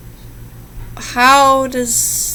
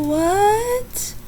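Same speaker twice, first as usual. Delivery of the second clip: shocked what; 9 semitones higher, 7 dB quieter than usual. Real, not acted. Shocked by little girl's line.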